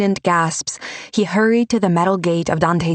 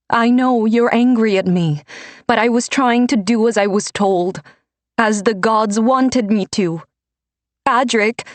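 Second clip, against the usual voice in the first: pleading; 6 semitones higher than usual. A narrator's reading. Pleading mother, emotional.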